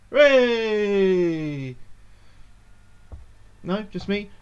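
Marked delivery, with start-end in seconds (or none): 0.1-1.8 loud, drawn-out cheer; cheering crowd. Acted. Crowd cheers his name.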